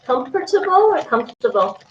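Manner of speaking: first comfortable spelled out in full syllables, second comfortable shortened; contrasting two pronunciations. Shown as a demonstration. Streamer asking viewers how to say it, comfortable two ways. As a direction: say comfortable carefully as com-fer-ta-ble, then comfortable squeezed as comf-ta-ble. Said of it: "How do you say comfortable?".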